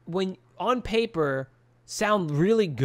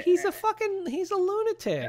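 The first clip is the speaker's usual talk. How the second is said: outraged emphasis; 14 semitones higher, 4 dB quieter than usual. Real, not acted. Outraged about Troy.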